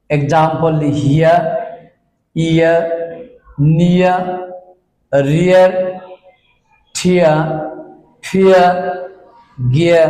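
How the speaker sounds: "হিয়া" and "ফিয়া" said with a clear "ইয়া" ending and no r; teacher modelling words. Shown as a demonstration. Teacher to students, drilling the ia sound. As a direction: stress the "ইয়া" ending on each word. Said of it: "ইয়া সাউন্ডটা".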